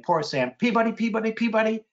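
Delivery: rhythmic sparrow mnemonic; sparrow's song. Shown as a demonstration. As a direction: chant it like a white-throated sparrow. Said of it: "I originally had them saying".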